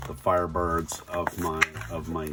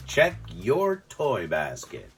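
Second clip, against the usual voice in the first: playful call out; 5 semitones higher than usual. Real, not acted. Calling out to his kids.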